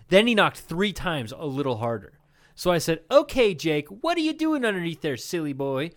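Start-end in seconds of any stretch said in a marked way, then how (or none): 3.1-5.9 put-on sing-song baby talk. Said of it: "That's a weird way to talk to your kid".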